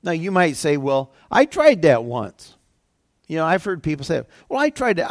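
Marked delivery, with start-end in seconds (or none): 0.8-2.5 loud, drawn-out imitated complaint; mock objection. Acting a sceptical objector. 4.5-5.1 high-pitched imitated grumbler; mock complaint. Imitating people who complain.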